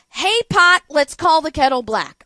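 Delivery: big theatrical sarcasm; mock announcement. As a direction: proclaim it like a grand title.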